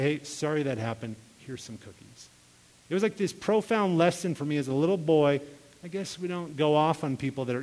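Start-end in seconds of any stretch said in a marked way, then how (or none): 0.0-2.3 understated, softening retold apology; mild gentle apology. Mom coaching kids to apologize to neighbors, gently. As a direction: offer it low-key, trailing down quieter.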